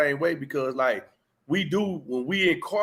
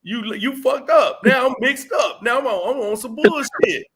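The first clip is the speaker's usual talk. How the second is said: heated outburst; 6 semitones higher, 5 dB louder than usual. Retold or imitated. Acting out getting triggered, louder and higher. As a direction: let the anger boil over.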